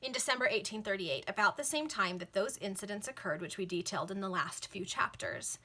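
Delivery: measured, lilting novel reading; formal audiobook-style narration; story narration. A narrator's reading. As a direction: read it out like an old serial. Reads a novel aloud.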